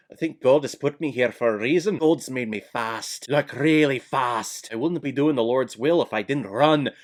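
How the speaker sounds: put-on hammy, unconvincing Scottish accent; terrible Scottish accent. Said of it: "Terrible Scottish accent".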